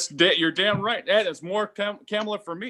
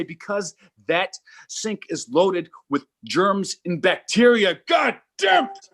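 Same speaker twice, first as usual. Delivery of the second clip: mock angry dad; 4 semitones higher, slower than usual. Dad losing it at his four-year-old over the sink, slow and rising to a yell. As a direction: blow up at the kid over germs. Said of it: "I say".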